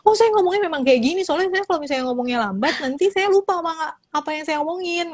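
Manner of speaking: high, fast defensive excuse; mock a speaker brushing off criticism. Speaker defending herself to the committee, high and fast. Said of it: "tapi dia suka defensif".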